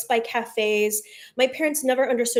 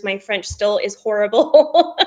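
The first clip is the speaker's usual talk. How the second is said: laughing at herself; 5 dB louder, slower than usual. Real, not acted. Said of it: "self-mocking laugh".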